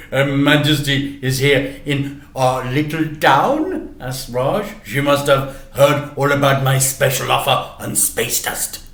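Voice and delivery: a hint of a jokey newsagent; shopkeeper Raj. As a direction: shopkeeper teasing the boy.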